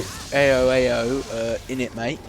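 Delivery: rough British slang, sounding Australian; lightly put-on British "mate" accent; mock British accent. Co-host imitating the British hero for friends, muddled British accent. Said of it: "Sounds Australian".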